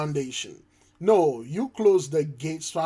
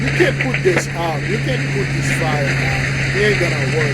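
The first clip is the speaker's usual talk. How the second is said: louder, hammering each claim; emphatic insistence; 6 dB louder than usual. Real, not acted. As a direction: insist it can't be stopped. Insists the fire cannot be stopped.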